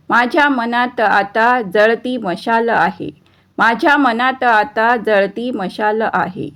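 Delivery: measured, lilting verse reading; poem recitation. Acted. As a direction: recite it line by line in an even rhythm.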